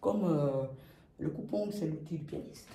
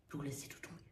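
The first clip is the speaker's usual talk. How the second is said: breathy release, much softer; exhaling; 5 semitones lower, 15 dB quieter, much faster than usual. Shown as a demonstration. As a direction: let it all fall out. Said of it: "releases the breath".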